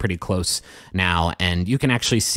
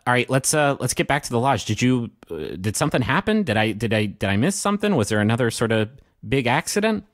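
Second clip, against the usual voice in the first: concerned; 2 semitones higher than usual. Acted. GM voices Barclay, concerned.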